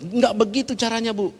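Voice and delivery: high-pitched mock rebuke; somewhat snapping, retold. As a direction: reenact scolding her, not a full shout. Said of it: "rada membentak". (memperagakan bentakan ringan)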